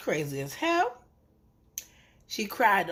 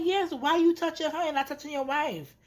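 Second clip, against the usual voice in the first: mock exasperated yell; 9 semitones higher than usual. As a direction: pitch it up in disbelief. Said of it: "I'm like".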